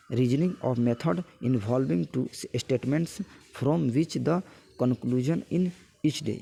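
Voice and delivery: slow word-by-word reading of a definition; slow dictation. Acted. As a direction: read it out slowly so students can copy it down.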